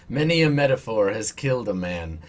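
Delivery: loud, mock-dramatic echo of the line; mock grandiose quote. Player echoing the priest's metaphor line, mock grandiose. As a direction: declaim it loudly, in jest.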